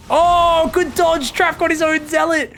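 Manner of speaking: excited shout. Real, not acted. Exciting fight moment.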